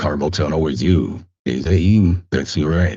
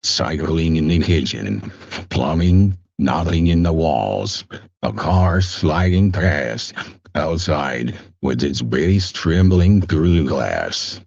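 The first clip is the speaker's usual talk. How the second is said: measured audiobook narration; deliberate book reading with pauses; narrator voice. Acted. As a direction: read it like a storyteller, phrase by phrase. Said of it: "read my book in".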